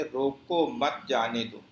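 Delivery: only the slightest pause within "روکو مت جانے دو"; "روکو مت جانے دو" with the shortest possible stop; minimal pause. Shown as a demonstration. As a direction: run "روکو مت جانے دو" on with barely a break. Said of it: "سب سے کم ٹھہراؤ".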